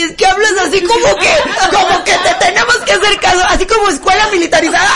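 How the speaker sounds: high, fast mock protest; laughing complaint. Driver blaming the bossy friend, laughing complaint.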